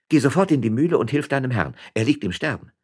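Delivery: loud, high-pitched command; urgent order. A narrator's reading. Woman sends servant to his dying master, urgent order. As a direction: send him running for a dying man.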